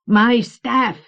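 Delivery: high, loud possessive outburst; dark creature voice. A narrator's reading. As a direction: spit it out as a scheming creature. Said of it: "he muttered darkly".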